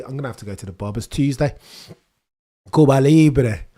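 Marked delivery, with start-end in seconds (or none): 2.7-3.7 loud, higher shout of Cuba Libre; rallying cry. Pretend. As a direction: belt it like a toast at a rally.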